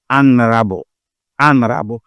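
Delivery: Honorable, H muet, dit anrabo; honorable sans H. Shown as a demonstration. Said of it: "On prononce pas". (Honorable prononcé sans H)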